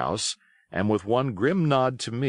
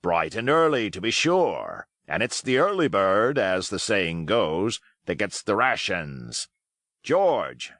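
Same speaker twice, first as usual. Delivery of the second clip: put-on hearty old pirate. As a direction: chatter on cheerfully, playing the host. Silver's voice held.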